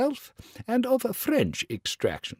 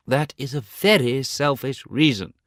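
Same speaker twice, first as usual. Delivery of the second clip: angry. Acted. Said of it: "said the rocket angrily".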